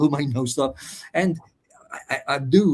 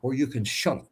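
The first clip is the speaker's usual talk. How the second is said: menacing officer; 6 semitones higher than usual. Retold or imitated. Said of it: "He said".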